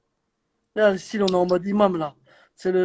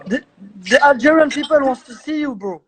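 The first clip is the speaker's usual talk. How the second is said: yelling across the room; 5 semitones higher than usual. Real, not acted. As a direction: call him over from afar. Calling Yassine over in English.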